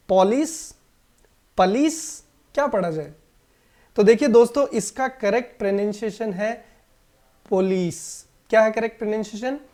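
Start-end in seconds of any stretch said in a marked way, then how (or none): 0.1-0.7 पॉलिस with an open o, PAW-lis; wrong option. Shown as a demonstration. Teacher offers the class the wrong choice, PAW-lis. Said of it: "तो क्या इनको पढ़ा जाए?". 7.5-8.3 पुलिस with stress on the second part, pu-LEES; पुलिस, lean on लिस; correct stress. Shown as a demonstration. Teacher shows the class where the stress falls, pu-LEES. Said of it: "इस पे थोड़ा सा stress आपको रखना है".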